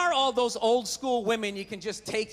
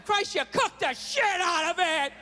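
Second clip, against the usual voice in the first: hammed-up shout, higher; mock dad shout; 6 semitones higher than usual. Dad griping at mom over dinner, mock shout. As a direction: bark the complaint.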